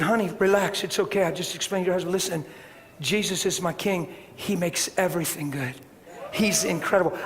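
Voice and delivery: soft and tender, easing her fear; soothing reassurance. Retold or imitated. To the shaking wife holding a towel, soft and soothing. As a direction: hush her shaking with gentle calm.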